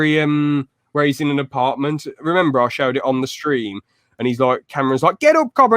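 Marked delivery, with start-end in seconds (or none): 5.2-5.8 high, loud imitated order; mock wake-up shout. Fan imitating Cameron rousing Copper, high shout. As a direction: call out loudly to rouse him. Imitates friend waking him.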